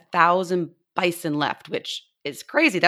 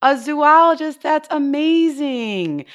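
excited; 6 semitones higher, 4 dB louder, slower than usual. Real, not acted. Child names dream job.

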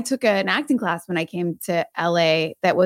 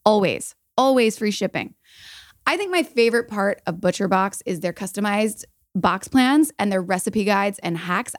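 upbeat podcast sponsor read; polished host-read commercial with emphasized selling points; 2 semitones higher than usual. Acted. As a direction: sell it to the listeners, evenly paced.

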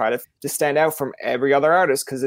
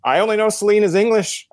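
put-on surprised kid; 7 semitones higher, 3 dB louder than usual. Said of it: "and I was like".

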